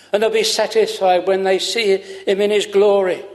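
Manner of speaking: fervent preaching. Acted. Preacher assuring his hearers of Christ's care, fervent. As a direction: lift the congregation with rising conviction.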